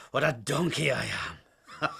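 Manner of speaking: slow, laughing through the words; rueful laugh. Acted. Old sailor caught out, slow rueful laugh. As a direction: chuckle at your own blunder.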